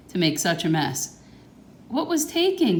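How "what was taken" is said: high gasping question; a storybook gasp of shock. Acted. Mom reacting to the robbery, high gasping question. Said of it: "gasped Mom".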